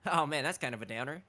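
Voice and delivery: a hint of mock-bummed joking; comic switch. Imitating voice actor undercutting a serious scene, lightly comic. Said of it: "Just, like, switching".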